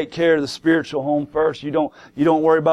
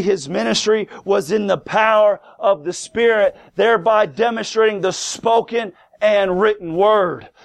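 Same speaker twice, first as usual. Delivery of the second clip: higher-pitched, driving sermon delivery; emphatic preaching; 5 semitones higher than usual. Real, not acted. Preacher explaining Paul's signs to the congregation, emphatic preaching.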